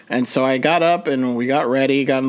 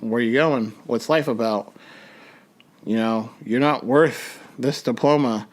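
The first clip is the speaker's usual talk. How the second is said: voice of depression; 3 semitones lower than usual. Retold or imitated. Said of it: "my depression came back".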